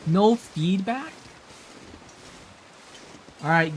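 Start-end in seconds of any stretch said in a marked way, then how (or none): 0.1-1.1 slow and higher, pleading; drawn-out mock plea; slow, drawn-out whine. Real, not acted. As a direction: stretch it out, begging for a reply.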